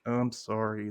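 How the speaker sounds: soft mock apology, shrinking down; small, soft, imitated contrition; sheepish guilty child. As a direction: apologize like a child caught at the cookie jar. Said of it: "looks like a child caught".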